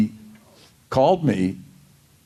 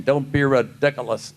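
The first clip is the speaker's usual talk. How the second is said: fans' bad imitation. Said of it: "I can do a great imitation".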